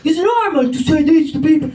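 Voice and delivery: a hint of a patronising lecturer; condescending local. Mocking the people who lecture her on Ireland. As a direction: play the know-it-all local. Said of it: "people are like".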